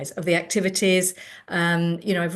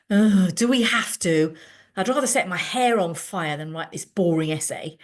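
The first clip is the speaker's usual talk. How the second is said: loud groan; 4 dB louder than usual. Retold or imitated. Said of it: "loudly from the back of the room".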